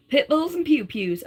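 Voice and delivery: put-on light Southern accent. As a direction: quote it in a playful Southern accent. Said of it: "That's exactly how I should read it".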